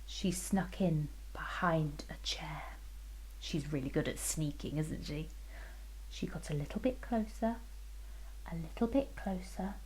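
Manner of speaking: hushed, fast whisper; sneaky whisper. A narrator's reading. Storyteller whispering while the fairy sneaks.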